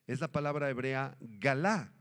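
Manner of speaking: galá, leaning on the last syllable, ga-LÁ; galá, stress on the second A. Shown as a demonstration. Pastor teaching the Hebrew word to the congregation, stress on the last A. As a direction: say galá with the stress landing on the final A. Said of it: "con acento en la segunda A".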